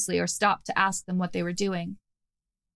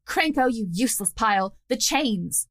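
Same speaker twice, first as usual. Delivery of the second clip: an understated shout, pitched higher; shouted command; 3 semitones higher than usual. Acted. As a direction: call out for the chains, restrained. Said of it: "she shouted".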